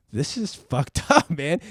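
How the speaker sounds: laughing. Real, not acted. Laughing at the absurd situation.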